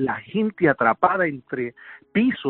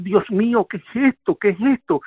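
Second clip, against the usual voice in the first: higher-pitched, restrained mock yell; retold cry of horror; 6 semitones higher than usual. Survivor sees the bodies, retold horrified cry. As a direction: relive the horrified cry, only mildly raised. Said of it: "yo empiezo a gritar".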